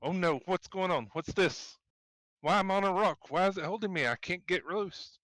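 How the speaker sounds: loud, high panicked cries; panicked yelling. Acted. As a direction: yell in panic, trapped. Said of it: "suddenly yell very loud".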